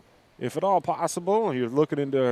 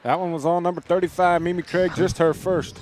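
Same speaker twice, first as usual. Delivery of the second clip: higher-pitched, energized courtside call; live play-by-play; 4 semitones higher, 4 dB louder than usual. Real, not acted. Announcer reporting Mimi Craig's first foul, lifted play-by-play. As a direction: keep the call lifted and moving.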